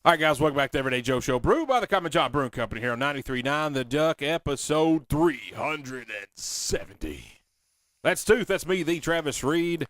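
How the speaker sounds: big radio announcer intro, slowing down on the episode number; dramatic intro. Real, not acted. Radio host overselling the show intro to listeners. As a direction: hype the show open like a showman. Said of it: "a little too dramatic on that intro".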